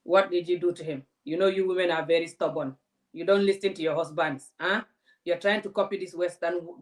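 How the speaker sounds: mild mock scolding cop; mocking policeman. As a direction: lecture her like a dismissive cop. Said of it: "They're like".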